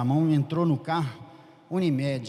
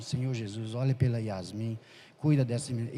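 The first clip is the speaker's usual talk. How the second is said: a soft murmured prayer, lower; very quietly; 4 semitones lower, 5 dB quieter than usual. Retold or imitated. Praying over a sick girl in the car, hushed. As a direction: pray under your breath so the family won't hear. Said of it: "bem baixinho".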